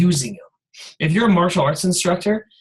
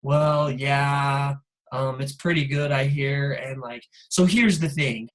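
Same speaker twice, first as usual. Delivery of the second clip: a lower, half-hearted imitation of a hesitant salesman; low-key mock pitch; 4 semitones lower, slower than usual. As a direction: mumble it as if unsure of the product. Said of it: "low key".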